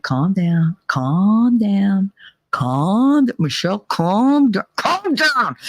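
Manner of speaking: rising, insistent calm down; mother calming her. Retold or imitated. Mother calming daughter ready to fight, rising pleas. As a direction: talk her down with growing urgency. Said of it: "she's like".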